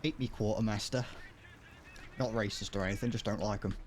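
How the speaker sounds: put-on casual stab at a British accent; deadpan quote in a rough British accent; attempted British accent. Reading a meme quote to stream viewers, attempted British accent. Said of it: "trying to do whatever the accent is".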